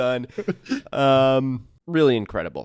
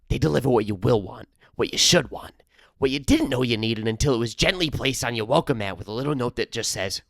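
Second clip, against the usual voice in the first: lightly voiced ad-read character; Rum Tum Timmy. Host voicing a made-up character for a sponsor read, lightly put-on. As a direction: read the ad copy in a mild character voice. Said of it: "That was my Rum Tum Timmy".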